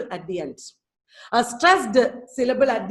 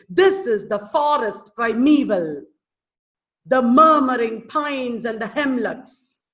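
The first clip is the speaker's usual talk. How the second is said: "This is the forest primeval", slow, THIS stressed; slow measured beats, "murmuring" hit on its first syllable; initial stress; 4 dB louder, slower than usual. Shown as a demonstration. Teacher showing rhythm more like speaking, slow dactylic recitation. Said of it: "initial, uh, syllable is stressed".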